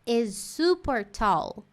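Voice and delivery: slow awed "Wow, this church is super tall."; admiring wow. Shown as a demonstration. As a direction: marvel at it slowly. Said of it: "você falaria assim".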